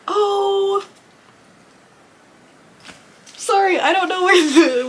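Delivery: high, choked-up apology; tearing up. Real, not acted. Unboxer moved by gifted art apologizes to viewers, tearing up. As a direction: caught off guard by happy tears. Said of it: "where the tearing up came from".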